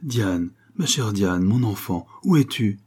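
very slow, tender dream call; a mother's voice calling softly through the lilacs. Acted. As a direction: call the child gently from afar. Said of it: "par une voix douce qui disait".

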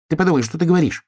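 high hedgehog telling his friend off; scolding hedgehog. A narrator's reading. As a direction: chide the cub as the small hedgehog. Hedgehog scolding the bear cub.

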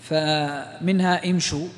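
slow, careful امشوا with the shin said round, imshu; drawn-out demo of امشوا with a round u; slow model pronunciation. Shown as a demonstration. Tajwid teacher showing a student, slow careful pronunciation. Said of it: "teacher models the verb".

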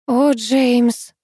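the name let out in a climax sigh; sighed-out "О, Джеймс!"; breathed out. A narrator's reading. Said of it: "выдохнула я".

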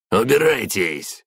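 high, slow furious shout. A narrator's reading. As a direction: roar them off your doorstep. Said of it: "крикнул мужик". (громкий крик)

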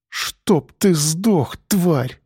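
slow, drawn-out hateful curse; bitter curse. A narrator's reading. Evgenia cursing her ex-husband, slow and hateful. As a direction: drag out every word of the curse.

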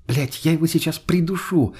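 повыше, с умеренной злостью; выругайся в сердцах, не срываясь на крик; злая ругань. A narrator's reading. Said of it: "выругалась Лена". (раздражённо ругается высоким голосом)

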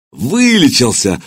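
glad exclaim. Acted. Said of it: "обрадованно воскликнул Кулиба".

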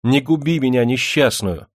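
high, loud begging; wailed plea. A narrator's reading. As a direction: wail for mercy. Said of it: "завопила".

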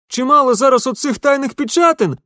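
put-on very high, loud, fast blurt of the old watchman. A narrator's reading. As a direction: blurt it out in a rush. Yukhim keeps talking. (выпалил высоко и быстро)

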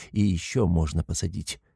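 ordinary delivery

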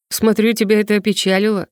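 ordinary delivery, nothing marked

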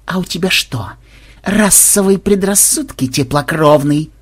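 slow, altered vampire voice with a sneer; menacing vampire. Acted. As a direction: lean in, threatening. Vampire confronts scared onlooker. (угрожающий голос вампира)

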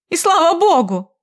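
high, loud sarcastic relief; язвительно, громко; scornful retort. A narrator's reading. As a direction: throw his threat back at him. Wife retorts to husband's threat.

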